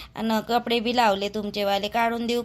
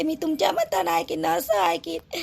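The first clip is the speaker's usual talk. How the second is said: mocking quote; 3 semitones higher than usual. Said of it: "आता म्हणते".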